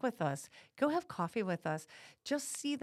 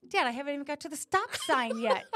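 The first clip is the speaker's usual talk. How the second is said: exasperated protest; 6 semitones higher, 6 dB louder than usual. Retold or imitated. Protesting to her dad.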